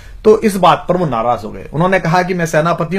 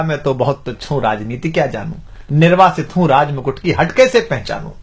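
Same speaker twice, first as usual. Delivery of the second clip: sarcastic; 3 semitones lower than usual. Acted. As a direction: play the slighted commander's mock humility. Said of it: "अब व्यंग में कहता है".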